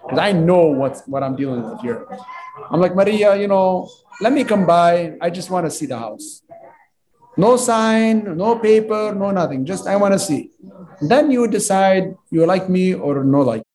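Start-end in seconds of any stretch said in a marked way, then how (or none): 2.9-13.6 broken English. Retold or imitated. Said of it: "I'm Lebanese, so there's a foreign thing".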